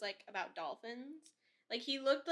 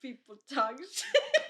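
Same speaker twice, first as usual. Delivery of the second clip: put-on laughing through an Irish accent; Irish lilt, slow, breaking into laughter; 4 semitones higher, 11 dB louder, slower than usual. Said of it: "say it in, like, an Irish accent".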